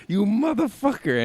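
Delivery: loud, high-pitched accusing yell; mock outrage. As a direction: call out the faker at full volume. Acting father catching the faker.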